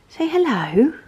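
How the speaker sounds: high, lilting coax with a rising end; pet-talk lilt. Real, not acted. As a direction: coax the dog brightly upward. Coaxing her dog to say hello.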